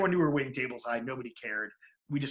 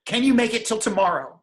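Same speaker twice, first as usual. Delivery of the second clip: anxious helper; 7 semitones higher, 9 dB louder than usual. Retold or imitated. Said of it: "Start totally panicking".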